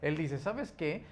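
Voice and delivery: a hint of an energetic self-help speaker; quoting Anthony Robbins. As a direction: pump them up like a stage coach. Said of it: "De cómo es que dice".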